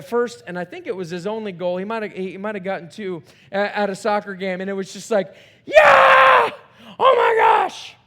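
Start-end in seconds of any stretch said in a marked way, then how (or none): 5.6-7.9 high, loud whooping cheer; excited cheer. Retold or imitated. Dad at son's soccer game, loud excited cheer. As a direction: cheer like your son just scored.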